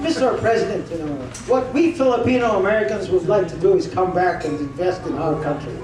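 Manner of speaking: lightly put-on American accent; a hint of mock Chicago accent; imitated Chicago accent. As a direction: mimic an expatriate's Chicago accent. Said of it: "L A accent. But Chicago accent pala".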